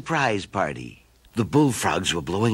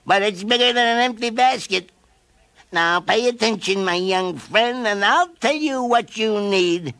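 kindly caterpillar; 11 semitones higher, 3 dB louder than usual. A narrator's reading. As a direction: soothe the young bear. Caterpillar teaches bear.

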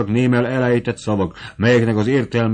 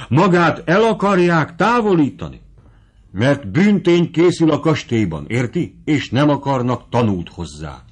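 alarmed revelation; 4 semitones higher than usual. Acted. Kapitányné reveals crime excitedly.

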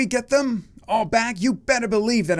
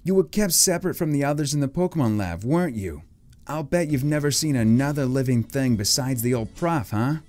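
lightly put-on Boston accent, reassuring; 3 semitones higher than usual. Boy reassuring Bulbasaur about leaving the lab, Boston accent. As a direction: talk gently with a Boston accent. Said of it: "He totally has a Boston accent".

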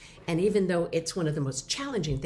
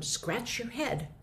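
slow clear instruction; 6 semitones higher, 4 dB quieter, much slower than usual. Shown as a demonstration. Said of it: "if I said to someone".

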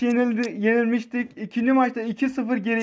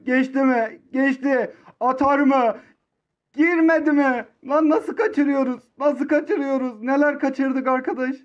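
frustrated near miss; 3 semitones higher than usual. Real, not acted.

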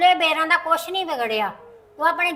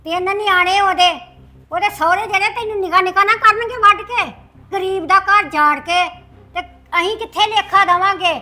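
raised, agitated reproach; indignant scolding; 3 semitones higher, 4 dB louder than usual. Acted. Mother scolding son over ruining a family, indignant scolding. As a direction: pile up the warnings in a raised voice.

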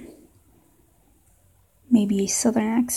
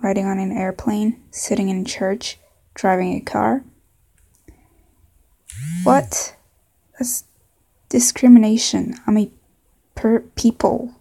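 put-on southern accent. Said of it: "maybe a southern accent".

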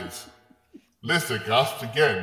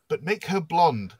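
instructing; 7 semitones higher, 3 dB louder than usual. Acted. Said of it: "Colwyn instructs the magician".

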